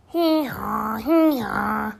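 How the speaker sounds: loud braying hee-haw; donkey bray. Acted. The donkey Bert brays.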